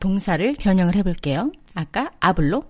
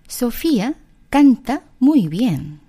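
very slow, word by word; slow demo; 3 semitones higher, 5 dB louder, much slower than usual. Shown as a demonstration. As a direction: spell the sentence out slowly. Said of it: "라고 한다면".

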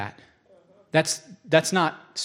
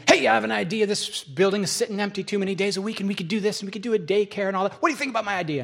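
higher, eager pitch of a new idea; excited caller; 5 semitones higher, faster than usual. Retold or imitated. Colleague phoning the preacher with his daycare idea, excited and higher. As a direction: rattle off a big idea, pitched up. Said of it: "Dennis calls me".

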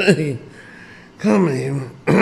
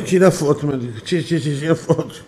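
laughing; 3 dB louder, much faster than usual. Real, not acted. Laughing fit while photo taken.

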